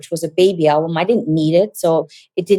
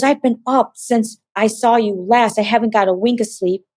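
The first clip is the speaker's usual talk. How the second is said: high, panicked, rushing words; frantic, panicked, higher voice; frantic brother; 4 semitones higher than usual. Retold or imitated. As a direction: brother who hasn't slept, terrified. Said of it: "He sounded frantic and crazy".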